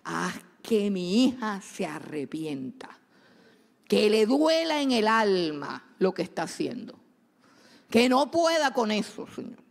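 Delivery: súplica que empieza con un grito agudo y luego baja; madre orando por su hija. Retold or imitated. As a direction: ruega a Dios con angustia por la hija. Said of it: "Entonces yo oro con esa palabra". (madre imitando su oración por la hija, primero aguda y después más suave)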